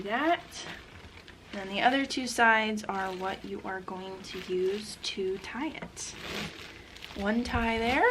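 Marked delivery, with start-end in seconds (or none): 1.5-6.1 whispering. Real, not acted. Whispering while wrapping quietly.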